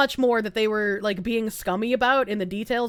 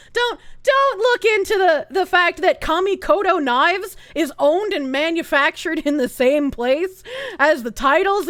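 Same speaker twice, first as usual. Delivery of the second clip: mocking whiny voice; 2 semitones higher than usual. Streamer mocking defenders of the company, sarcastic whine. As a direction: parrot their excuse in a silly voice. Mocks the "obviously a gimmick" crowd.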